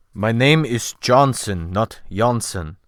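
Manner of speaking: put-on slow, careful with a faint Scandinavian accent; a shade of a Scandinavian accent, slowly; slow Scandinavian English. The sailor correcting his name, slow with a faint Scandinavian accent. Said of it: "he said in very good though slow English".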